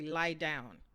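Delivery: just the order, no please; short order to lie down; blunt command. Shown as a demonstration. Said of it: "Or I can say".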